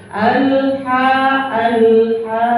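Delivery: "alha" with tongue held up on l; clean unbounced l. Shown as a demonstration. Teacher showing correct lam, no bounce. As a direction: go straight from l into a long "ha". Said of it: "lidahnya langsung dia naik ke atas".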